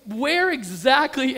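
mock-panicked slow emphasis; freaked-out dad. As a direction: re-enact nervous insistence, hanging on each word. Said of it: "I'm freaking out, kinda laughing".

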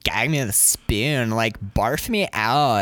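gag me with a spoon, like; valley girl. Retold or imitated. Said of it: "That valley talk".

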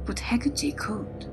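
breathy whisper, close to the mic. A narrator's reading. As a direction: hush it like a secret. Teaser line before the story.

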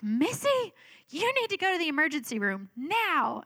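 high, emphatic retold order; insistent sister. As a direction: imitate a sister laying down the law.

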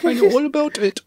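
put-on high, tiny baby voice. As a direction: talk like a cute little kid. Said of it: "why do you keep doing this baby voice".

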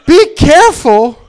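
high, loud, drawn-out mock repeat; mocking outburst. Comic mocking his coworkers' warning, loud and incredulous. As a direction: throw the warning back loudly.

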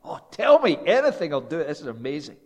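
a rush of eager hope. Pretend. The man hearing one thing.

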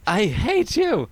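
high, loud, slow scream; drawn-out shriek of hate; screamed hatred. Retold or imitated. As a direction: scream it at his picture. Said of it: "she screams at a picture of Hank".

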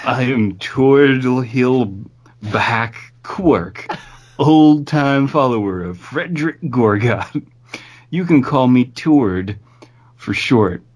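high, slow, sinister stranger; creepy cultist voice. Acted. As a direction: introduce yourself like an eerie cultist. Voices the follower character.

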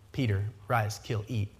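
low, soft divine command; hushed commanding voice in the vision; hushed voice of God. Retold or imitated. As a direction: speak it low and hushed, like a voice from heaven. God's voice repeats the command.

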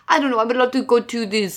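imitating a halting foreign-student accent; lightly put-on Italian-style accent; hesitant fake foreign accent; mock foreign accent. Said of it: "he also does the classic".

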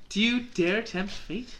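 slow, lightly ominous mystic; ominous fortune teller. Acted. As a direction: ask it like a spooky seer. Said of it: "your fortune teller".

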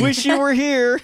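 high, gleeful sing-out; mock postcard greeting. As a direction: rub it in with a put-on cheery pitch. Acting out a taunting holiday postcard.

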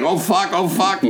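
high, panicky imitation; mock panic. Frightened student facing a donut-crazed stranger, high mock panic. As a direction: play a scared kid for laughs.

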